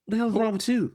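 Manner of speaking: very high-pitched, baffled mock outrage; appalled disbelief. Client reacting to a suddenly clinical intern, appalled disbelief. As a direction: imitate a client thrown by therapist-speak, voice shooting up.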